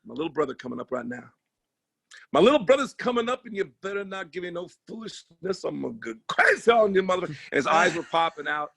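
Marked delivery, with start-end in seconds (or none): 0.0-7.3 Bernie Mac intro. Retold or imitated. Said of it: "He goes".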